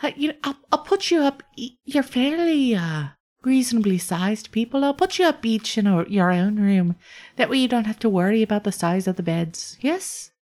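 courteous innkeeper offering rooms; Iolasa the host. Acted. GM voices Iolasa.

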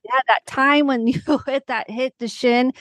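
a light voiced daughter, amused; daughter recalling.

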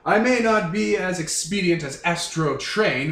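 lightly put-on snooty British accent; a North American badly faking a haughty Brit; Skylynx. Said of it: "doing a terrible impression of a British person".

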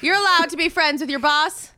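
laughing in character. Acted. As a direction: bluff broken by laughter. Bluffing guards, laughing.

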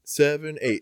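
loud, high counting that skips six; mock cheer count. Mimicking the cheer mom, loud high count skipping six. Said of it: "she skips six every damn time".

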